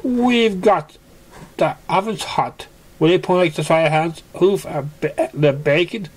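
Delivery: Mister Cake. A narrator's reading. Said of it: "said Mister Cake".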